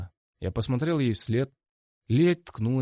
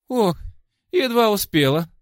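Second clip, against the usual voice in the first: much higher, louder rushed relief; breathless blurt; 12 semitones higher, 7 dB louder than usual. A narrator's reading. Ида bursts into the office, breathless blurt. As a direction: burst out as if just arrived running. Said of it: "выпалила она".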